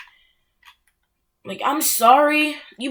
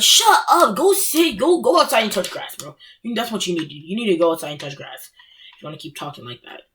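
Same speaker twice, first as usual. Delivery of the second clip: dismissive retort; 3 semitones lower than usual. Retold or imitated. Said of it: "I'm like".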